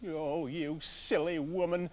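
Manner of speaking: mild mock shout. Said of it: "shouted the woodcutter".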